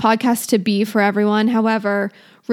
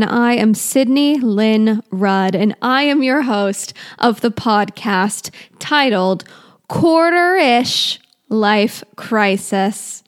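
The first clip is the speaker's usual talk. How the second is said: announcer intro; slower than usual. Acted. Formal podcast intro.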